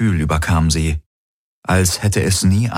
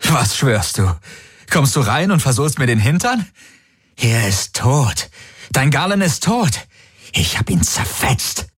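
much higher, frantic taunting; hysterical villain; 8 semitones higher than usual. Acted. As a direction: gloat over his victim. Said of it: "Es klang hysterisch, gehetzt".

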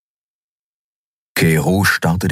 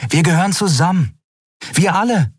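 put-on higher young woman, insistent; Endriel's voice; 6 semitones higher than usual. A narrator's reading. Endriel arguing with Keru, higher insistent young voice. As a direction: lift into her earnest pleading.

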